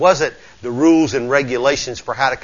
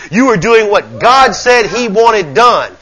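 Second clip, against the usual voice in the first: raised, higher-pitched sermon affirmation; emphatic preaching; 7 semitones higher, 5 dB louder than usual. Real, not acted. Preacher affirming the congregation's observance, preaching emphatically. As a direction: build conviction phrase by phrase.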